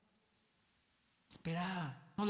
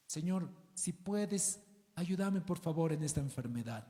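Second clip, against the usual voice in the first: doubtful plea; 3 semitones lower, 4 dB quieter than usual. Shown as a demonstration. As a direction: pray as if unsure God can. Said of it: "Qué falta de fe".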